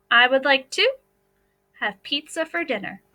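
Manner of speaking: a pause after to in I would like to, then have pizza for dinner; chunked reading. Shown as a demonstration. Teacher splitting the sentence to find the trickster word. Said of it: "I would circle that trickster word".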